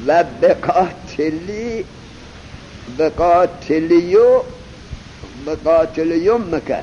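slow, syllable-by-syllable بقاتلیومک; building up the word. Shown as a demonstration. Teacher assembling the word slowly for the class. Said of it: "خیلی خوب".

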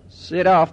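صراف with a short e after the opening s; kasra on the first letter. Shown as a demonstration. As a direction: say صراف as "seraf", first vowel e. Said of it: "به کسر ساد".

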